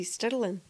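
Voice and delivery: "Stirling" with an "uh" vowel; local Stirling pronunciation. Shown as a demonstration. Former pupil showing how they all said "Stirling", with the local vowel. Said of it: "must have come out as a "uh".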